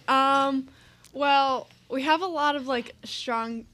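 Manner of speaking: muffled behind a hand; hand over mouth. Real, not acted. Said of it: "just take your hand away from your mouth".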